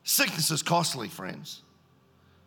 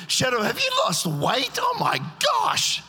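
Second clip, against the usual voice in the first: high excited shouting; mock shout; 3 dB louder than usual. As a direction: squeal it with delight.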